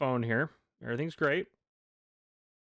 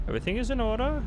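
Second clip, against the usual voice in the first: German accent; 11 semitones higher, faster than usual. Shown as a demonstration. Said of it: "Sorry to my German viewers".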